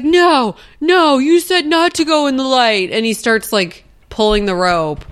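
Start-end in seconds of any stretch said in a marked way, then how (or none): 0.0-2.9 higher, raised-voice imitation of objection; loud, high retold outburst; mock protest. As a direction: act out an urgent protest. Retelling a panicked film argument.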